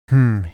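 slow, drawn-out hum; toned hum. A narrator's reading. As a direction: hum it thoughtfully. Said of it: "he toned".

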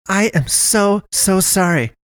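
put-on high, rushed, flustered young woman; blurted apology. A narrator's reading. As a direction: blurt it out in a panic. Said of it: "Naomi blurted out".

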